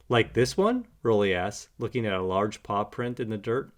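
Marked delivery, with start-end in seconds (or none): 0.1-0.9 high eager little puppy. A narrator's reading. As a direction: pitch it up, curious. Rolly asks.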